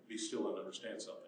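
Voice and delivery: low and soft; hushed divine word. Acted. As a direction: speak as God, quietly and firmly. Voicing God's quiet command.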